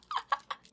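high, helpless giggle; squeaky burst of laughter. Real, not acted. Laughing at grumpy card.

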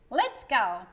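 loud, eager call to go; rally the kids to set off. Acted. Uncle rallying the children to leave, loud and eager.

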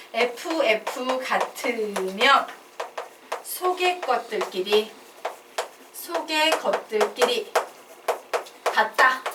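slow, phrase-by-phrase model reading; reading demonstration. Shown as a demonstration. Teacher showing the class how to read a new expression, slow model reading. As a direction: spell out "에프에프 같으면" slowly, pausing between phrases. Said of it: "이렇게 읽을 거야".

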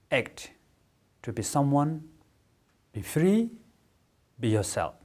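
measured meditation voice, spaced phrases; guided meditation. Acted. Teacher bringing listeners out of meditation, measured guiding voice. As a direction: release them gently, phrase by phrase, with long pauses.

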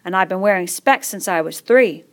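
a touch of pride; proud fat boy. Acted. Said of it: "with a touch of pride".

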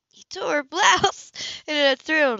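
excited emphasis. A narrator's reading. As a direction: land it like a thrill. Dramatic climax.

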